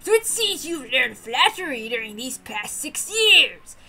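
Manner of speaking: slow, mock-gruff old lord; teasing old man. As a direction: scold playfully like a grandfather.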